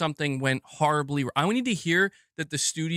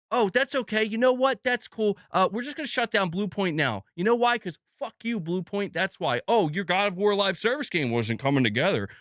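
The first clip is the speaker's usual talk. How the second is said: much higher, sneering fake-cheerful boss voice; sarcastic mock Sony; 4 semitones higher than usual. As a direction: play the smug boss shutting studios, high and snide. Mocking Sony's voice, sarcastic.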